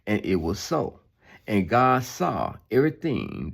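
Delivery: measured, solemn Bible reading; steady preacher reading scripture. Acted. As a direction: read the verses with weight. Reads Genesis aloud.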